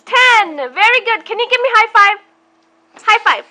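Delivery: high, bright praise; excited praise. Acted. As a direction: cheer the child on. Praising a toddler.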